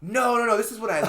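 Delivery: laughing, loud, high protest. Real, not acted. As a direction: laugh through the denial. Laughing denial.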